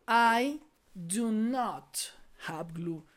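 drawn-out, loud "I do not", then drop off; very slow classroom repetition; slow model sentence. Shown as a demonstration. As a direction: say it slowly for learners to copy. Teacher repeats model sentence slowly.

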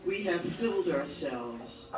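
measured poetry recital, each phrase set apart by pauses; solemn poem read aloud to an audience. Acted. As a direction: read it as verse, line by line, each ending falling. Reads own poem aloud.

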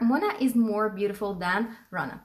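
somewhat slow model sentence; teacher repeating the example. Shown as a demonstration. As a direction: repeat it a bit slowly.

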